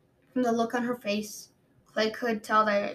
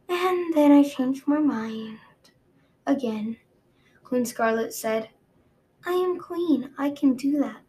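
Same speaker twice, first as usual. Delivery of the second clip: haughty queen voice; 3 semitones higher than usual. Acted.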